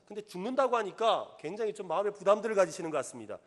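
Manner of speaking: normal talking voice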